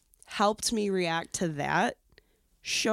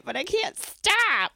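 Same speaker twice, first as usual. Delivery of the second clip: helpless self; 11 semitones higher, 4 dB louder, much slower than usual. Retold or imitated. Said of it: "And I'm like".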